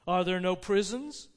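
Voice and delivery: pointed rhetorical question; throwing words back. Acted. The Spirit turns Scrooge's words on him, pointed. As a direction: turn his own words on him. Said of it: "turning on him for the last time with his own words".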